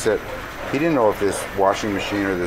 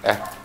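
short correcting ah; 2 semitones higher than usual. Shown as a demonstration. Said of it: "That's what I do".

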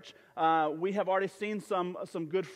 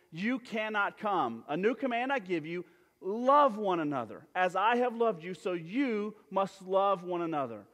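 raised, measured scripture reading. Acted. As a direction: read the verses out to the church with weight. Reads scripture to congregation.

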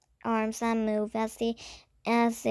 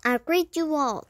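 raised, proclaiming greeting; declaring; 4 semitones higher than usual. A narrator's reading. Young prince greets the assembled room, declaring. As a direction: announce it grandly to the room. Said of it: "the boy declared".

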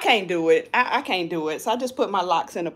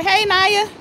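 cheerful greeting; 10 semitones higher, 4 dB louder than usual. Real, not acted.

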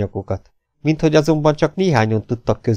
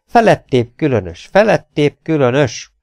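higher, voiced exclamation of puzzlement; musing aloud; 5 semitones higher, 4 dB louder than usual. A narrator's reading. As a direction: wonder aloud, pitch raised. Professor repeats his phrase aloud. (hangosan csodálkozva)

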